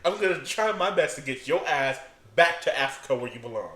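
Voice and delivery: lightly voiced, pushy deportation boss; blunt mock threat, emphatic; Trump-like official. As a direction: assert your authority with a hint of Trump. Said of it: "I'm trying to channel the Trump in you".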